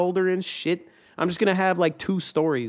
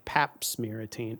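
bad pun voice; 5 semitones lower, 7 dB quieter, much slower than usual.

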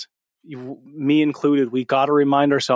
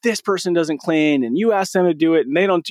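mildly frustrated daughter's complaint; a touch of exasperated grievance; retold frustration; 3 semitones higher than usual. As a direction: imitate a fed-up daughter, slightly raised pitch. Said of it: "like, super frustrated".

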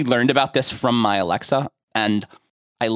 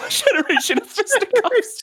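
put-on high, laughing old-timey echo. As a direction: repeat it like an old-fashioned gent. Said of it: "say fisticuffs in an old-timey voice".

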